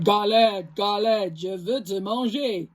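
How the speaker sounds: low gruff bear voice. Acted. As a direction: growl it like a big bear. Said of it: "gronde l'ours à sa grosse voix".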